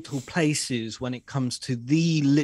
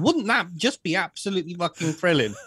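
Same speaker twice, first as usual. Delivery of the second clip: mock thrilled; 4 semitones higher than usual. Sarcastic dinner fantasy.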